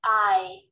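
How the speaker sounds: the diphthong I said fully and clearly; diphthong demo. Shown as a demonstration. Teacher modelling the I diphthong for the class. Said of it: "we've been through vowels and diphthongs".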